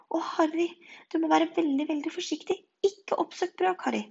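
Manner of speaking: high, breathless pleading; anxious warning. A narrator's reading. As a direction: beg your friend to take care, slowing at the end. Anxious friend warns Harry. (engstelig, lys advarsel)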